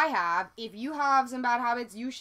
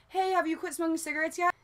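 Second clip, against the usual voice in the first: nagging friend; 6 semitones higher than usual. Retold or imitated. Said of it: "ask me".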